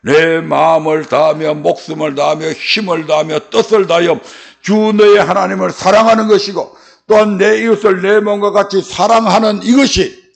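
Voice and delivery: normal talking voice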